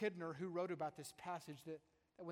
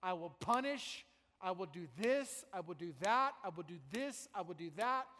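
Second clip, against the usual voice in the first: mock divine threat; 5 dB louder than usual. Preacher voicing an angry God, booming. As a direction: thunder out the threats. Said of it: "and he's saying".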